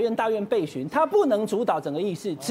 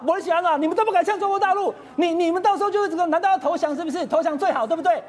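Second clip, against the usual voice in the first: mock-angry premier, pitched higher and pushing; retold angry outburst; 5 semitones higher than usual. Premier turning on the legislator, in a mock angry outburst. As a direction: hams up the premier snapping back. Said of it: "院长就翻脸了".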